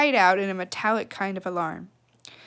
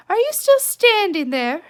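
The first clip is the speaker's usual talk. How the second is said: loud, higher, exasperated; irritated mother; 9 semitones higher, 7 dB louder than usual. Acted. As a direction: snap at the girl hovering.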